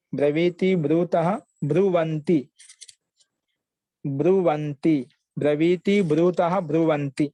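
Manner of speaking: measured chant-like recitation, long vowels; repeated verb dictation. Shown as a demonstration. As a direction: repeat each form carefully for a student. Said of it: "ఇంకొకసారి చెప్పరా మహోదయ". (ధాతు రూపాలను నిదానంగా, సాగదీస్తూ చెప్పడం)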